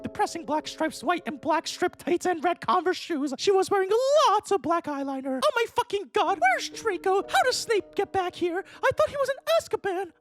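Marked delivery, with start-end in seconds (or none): 5.4-10.1 high frantic voice. Acted. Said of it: "I asked sadly".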